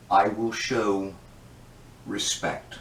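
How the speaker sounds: low, slow and softening; strained self-control, dropping quiet on the last word; forced restraint. Acted. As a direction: rein yourself in, slow and low. Reining himself back in after outburst.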